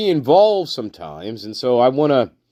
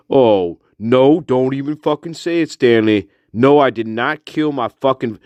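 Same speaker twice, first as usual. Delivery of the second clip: indignant Tyrone; 3 semitones higher than usual. Pretend. Tyrone tells Stanley not to say it, indignant. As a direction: cut him off in annoyed denial.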